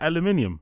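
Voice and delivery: aluminium as "al-yoo-MIN-ee-um"; British pronunciation. Shown as a demonstration. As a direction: say aluminium in five syllables, stressed on "MIN". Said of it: "when Americans pronounce aluminium".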